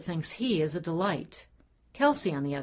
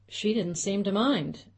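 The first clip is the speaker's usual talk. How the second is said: with a smile; 5 semitones higher, 3 dB louder than usual. Acted. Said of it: "he said with a smile".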